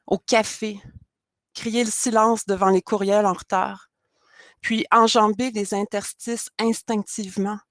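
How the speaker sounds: measured recital, phrase by phrase with pauses; poem reading. Acted. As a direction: read your poem aloud, setting each line apart. Poet reads their own poem aloud.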